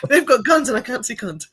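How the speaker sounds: laughing through the words; giggling as she says it. Real, not acted. Laughing while quoting daughter.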